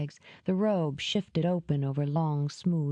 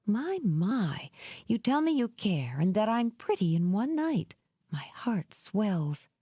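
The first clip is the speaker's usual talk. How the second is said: sarcastic purr fading to whisper; mocking; 4 semitones higher than usual. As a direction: tease him, mock swooning. Mocking his compliments.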